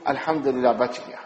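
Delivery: put-on mother hugging her child after a scare, softly relieved; relieved sigh. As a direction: breathe it out quietly, relieved.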